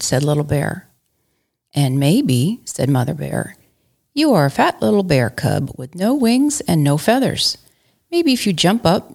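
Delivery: playful read-aloud with character voices; reading Little Bear to a child; story narration. A narrator's reading. Mom reading Little Bear to her kids, playful.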